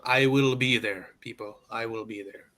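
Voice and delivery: solemn vow. Acted.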